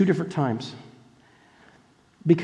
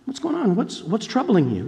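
soft, caring question; gentle Jesus; 4 semitones higher, 4 dB quieter than usual. Retold or imitated. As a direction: ask them kindly. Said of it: "and he just says".

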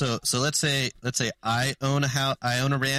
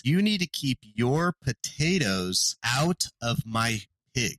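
slow, emphatic mock retort; deliberate retort; slower than usual. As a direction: space out "You need to keep your potatoes out of my pigs". British guy's retort, mirroring the complaint.

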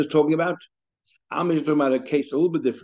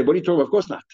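louder, scoffing retort; dismissive disbelief; 3 semitones higher, 4 dB louder, much faster than usual. Acted. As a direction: brush off an absurd idea. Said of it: "as if to say".

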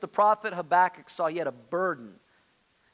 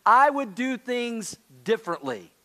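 higher, louder, slow and a little smug; cheeky complaint to God; 4 semitones higher, 4 dB louder than usual. Retold or imitated. Preacher voicing a believer telling God off, mildly sassy. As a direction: tell God you'd do better, half joking. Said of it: "In other words".

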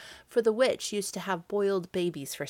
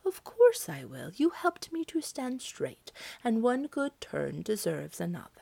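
kindly apple tree; 3 semitones higher than usual. Acted. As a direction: grant the favour gently, then drop to a whisper. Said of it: "Then the apple tree said".

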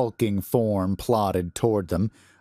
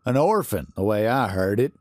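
dry importance. Acted. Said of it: "Gardner said with dry importance".

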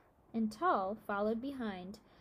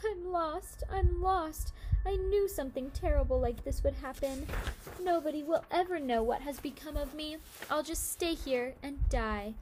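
put-on high, wailing child's cry of despair; panicked sobbing wail; 5 semitones higher, 3 dB louder than usual. A narrator's reading. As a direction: wail it like a lost little boy. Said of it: "and cried".

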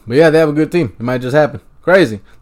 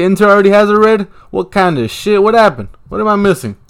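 shocked disbelief; 8 semitones higher, 5 dB louder than usual. Real, not acted. Shocked at a red card.

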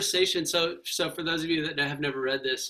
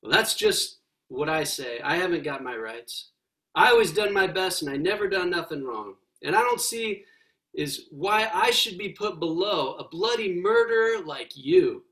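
ghost voice; 4 dB louder than usual. Acted. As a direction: brag like a proud working man. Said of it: "the ghost".

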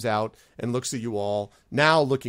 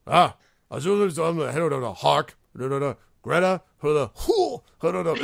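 loud goblin gibberish, pitched up; Gleek; 5 semitones higher, 6 dB louder than usual. Acted. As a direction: jabber away like an excited goblin. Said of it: "he sort of does all this stuff".

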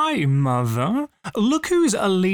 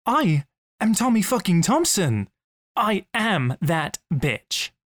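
defiant self-pep-talk; 3 semitones higher than usual. Acted. Hyping oneself up after self-doubt, deliberately defiant. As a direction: declare every word, slowing to the end.

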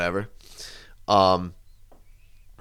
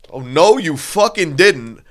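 higher, louder, stretched-out disbelief; indignant retort; 5 semitones higher, 5 dB louder, slower than usual. Retold or imitated. Drunk friend answering the singer's insult, indignant retort. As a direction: draw it out in mock outrage.

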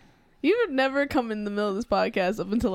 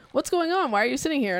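mock-indignant, higher-pitched question; retold outrage; 4 semitones higher than usual. Strangers come over to a stuck Apple customer, retold mild outrage. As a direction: lightly imitate someone outraged for you. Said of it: "getting enraged for me".

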